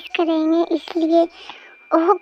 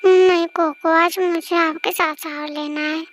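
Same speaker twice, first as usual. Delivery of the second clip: put-on clingy girlfriend. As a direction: plead like a sleepy sulking girl.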